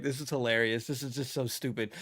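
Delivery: breaking up with laughter, eyes watering; can't stop laughing at how dumb it is; laughing to tears. Real, not acted. To his viewers, about the pledge, laughing helplessly. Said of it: "my eyes are watering".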